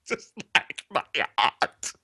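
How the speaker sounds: soft, sighing heartbroken repeat; quiet mournful echo. Acted. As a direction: echo it softly, defeated. Quiet echo after wail.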